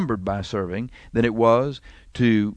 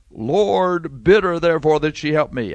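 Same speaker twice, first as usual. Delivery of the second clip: belittling sister; 3 semitones higher than usual. Acted. Martha embarrassing her sister before the guest, belittling. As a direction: complain for all to hear, pitched up. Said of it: "trying to embarrass her sister".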